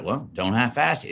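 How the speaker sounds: lightly voiced father pushing his son to commit; mild gritty warning. Father telling son to commit, in a lightly gritty tone. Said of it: "it had a little bit of grit in it".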